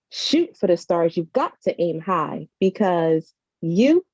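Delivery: spoken-word poem, rhythmic and rising; poem recitation. Acted. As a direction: perform it like a slam poet building hope.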